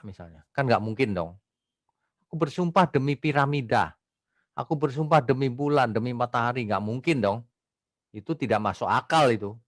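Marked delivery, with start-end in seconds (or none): 2.3-6.7 lightly acted oath, starting higher; half-play someone solemnly swearing; mock oath-taker. Preacher showing congregation impossible oaths, mock oath. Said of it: "ada orang yang bersumpah".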